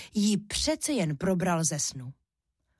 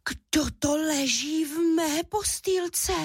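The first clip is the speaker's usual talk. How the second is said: much higher, slow wondering cub voice; surprised squeak; 9 semitones higher, slower than usual. A narrator's reading. Little Míša sees someone in his bed, higher surprised squeak. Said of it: "vypískl udiveně malý medvídek Míša".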